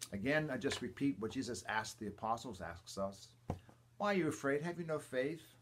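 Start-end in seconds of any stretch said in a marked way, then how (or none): 4.0-5.5 higher, louder, pointed reproach; reproaching rebuke. Retold or imitated. Jesus rebuking frightened apostles, raised reproachful voice. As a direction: press the question home like a rebuke.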